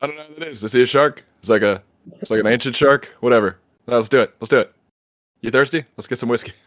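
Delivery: lightly put-on goofy owner voice; a hint of a cartoon henchman; Mark Cuban. Owner rambling about sharks, light dopey impression. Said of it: "Why does he sound like".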